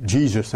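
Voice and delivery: "Jesus" with an English J and long ee; English pronunciation. Shown as a demonstration. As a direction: say "Jesus" as JEE-zus within French. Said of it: "comment on prononce en anglais".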